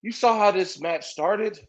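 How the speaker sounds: a hint of a timid, halting commentator; lightly voiced Rey. Mocking Rey calling a match for his friend, shy mumble. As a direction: mumble it like you're new on the mic. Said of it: "He's like".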